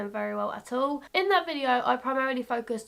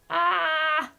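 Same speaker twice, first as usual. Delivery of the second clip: higher, sustained playful "aah"; drawn-out "ah"; 5 semitones higher, 3 dB louder than usual. Real, not acted. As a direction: hold one open cry. Playful cry while swatching shades.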